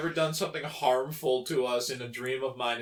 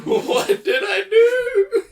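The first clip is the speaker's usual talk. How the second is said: high, loud, slow fake crying; mock wail; 11 dB louder, slower than usual. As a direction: wail it like a hammed-up sob. Echoes the mock apology, wailing.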